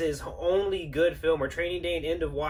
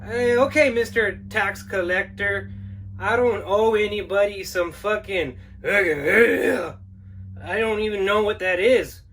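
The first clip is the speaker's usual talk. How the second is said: nervous homeowner. Acted. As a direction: talk fast to get out of it, flustered. Homeowner protests.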